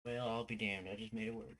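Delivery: a hammed-up, silly American accent, lightly done; a low-key, jokey American accent held through idle stream chat; put-on American accent. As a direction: goof around in a mock American accent. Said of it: "still putting on this damn accent".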